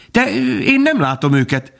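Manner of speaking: put-on high, hesitant child's voice; high fawn voice, unsure; puzzled little fawn. A narrator's reading. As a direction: falter like a confused small child. Fawn puzzled by his mother.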